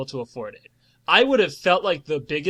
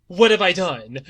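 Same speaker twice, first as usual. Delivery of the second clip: villain's regret; 5 dB louder than usual. Retold or imitated. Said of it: "like that when the villain".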